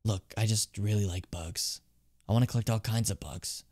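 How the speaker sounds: understated, hushed bug enthusiast; lightly voiced bug collector. Bug collector confiding in Jimin about deals at night, lightly voiced and quiet. Reads game character's dialogue aloud.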